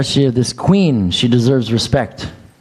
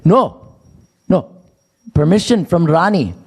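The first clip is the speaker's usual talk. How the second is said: mock guard; 6 semitones higher than usual. Guard refusing, imitated.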